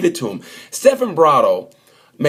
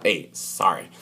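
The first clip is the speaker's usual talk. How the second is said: soft sorry; 6 semitones lower, 7 dB quieter, slower than usual. Retold or imitated. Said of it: "traffic at a Walmart parking lot".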